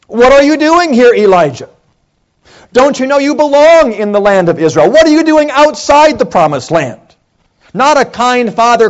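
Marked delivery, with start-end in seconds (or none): 0.1-7.0 higher, louder stern rebuke; stern accusing God voice, raised pitch and volume; angry accuser. Shown as a demonstration. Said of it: "the question of an angry accuser".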